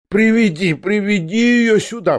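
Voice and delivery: high, loud eager cry; rousing up. Acted. Old prince rouses, begging to bring Katya, high eager cry. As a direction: leap up begging for her. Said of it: "встрепенулся князь".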